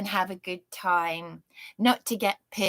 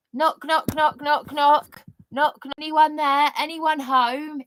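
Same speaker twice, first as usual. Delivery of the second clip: higher, sarcastic knock knock, slowing on anyone home; mock knocking; 5 semitones higher than usual. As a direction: pretend to knock and wait for an answer.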